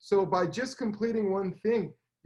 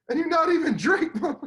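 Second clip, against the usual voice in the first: retold punchline; 9 semitones higher, 5 dB louder than usual. Comedian's punchline retold, teller laughing.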